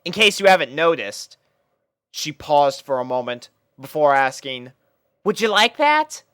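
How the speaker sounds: a pony captain lining up her troops; Rainbow Dash voice, bossy and bright. A narrator's reading. Rainbow naming a puppy.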